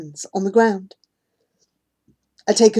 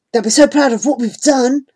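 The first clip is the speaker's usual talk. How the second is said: excited; 4 semitones higher than usual. Acted. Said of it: "said Jivan excitedly".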